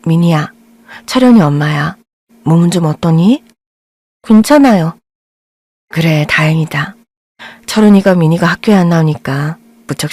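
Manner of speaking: gentle mother. Acted. Narrator voices boy's gentle mother.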